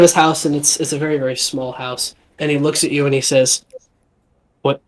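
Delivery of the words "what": stuttering a little in mild shock. Acted. Stunned villager asking the newcomers for a name, stuttering. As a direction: stumble lightly over repeated words. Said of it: "he's stuttering a little bit 'cause he's still kind of in shock".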